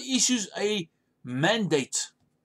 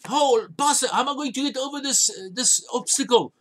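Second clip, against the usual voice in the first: whining congregant; 5 semitones higher than usual. Retold or imitated. Congregant pleading with the pastor.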